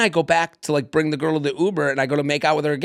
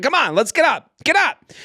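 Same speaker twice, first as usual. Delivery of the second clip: pitched-up, exasperated coaxing; annoyed urging; 10 semitones higher than usual. Retold or imitated. Man hauling a fallen stranger upright, annoyed urging. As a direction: retell it as impatient nagging. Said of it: "I got annoyed".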